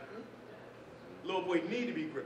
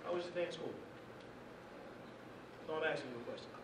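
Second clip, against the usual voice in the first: demo parent; 10 dB quieter, faster than usual. Shown as a demonstration. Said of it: "You know how? Let me show you".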